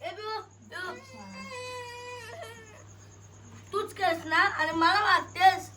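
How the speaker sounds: crying complaint. Real, not acted. Brother complains sister hits him.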